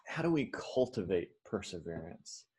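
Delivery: "cultivate" set apart with deliberate weight; soft question, "cultivate" stressed. Real, not acted. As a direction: lean on the word "cultivate". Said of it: "important to emphasize that word cultivate".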